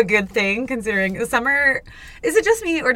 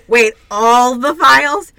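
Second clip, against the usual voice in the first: alarmed question; 3 semitones higher, 9 dB louder, slower than usual. Pretend. Voicing characters inside the brain.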